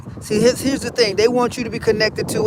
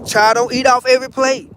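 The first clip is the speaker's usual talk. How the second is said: scolding elder; 4 semitones higher, 4 dB louder than usual. Retold or imitated. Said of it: "elder gives saying".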